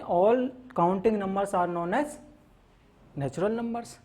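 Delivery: drawn-out definition for notes; slow classroom dictation. Shown as a demonstration. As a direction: say it slowly as if dictating.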